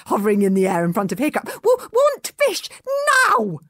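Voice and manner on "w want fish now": very high, slow stammering dragon; squeaky greedy dragon; demanding little dragon. Acted. Toothless demanding fish.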